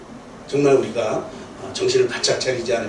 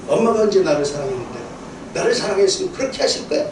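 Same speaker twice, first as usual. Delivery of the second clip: put-on bratty child; 3 semitones higher, faster than usual. Pastor imitates a child sassing mom, fast and whiny. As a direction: snap back at mom like a spoiled kid. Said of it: "부모에게 반항하는 철부지 그 아이들".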